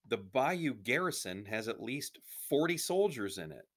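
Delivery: emphatic refusal, lightly southern French; southern French accent. A narrator's reading. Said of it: "said a man with a southern French accent".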